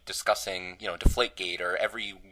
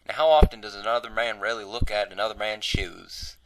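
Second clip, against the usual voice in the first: lightly imitated Morgan Freeman, Southern accent. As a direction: quote it with a slight Southern accent. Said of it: "I don't know why I have a Southern accent".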